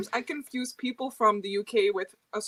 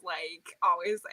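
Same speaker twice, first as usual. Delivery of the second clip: imitating an American Valley girl; Valley girl accent; 4 semitones lower, 4 dB quieter, slower than usual. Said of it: "I do always imagine the Valley girls".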